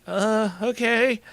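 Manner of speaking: high, drawn-out hesitant agreement; slowly grinning. A narrator's reading. Girl accepting the invitation, slow grin. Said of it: "slowly grinning".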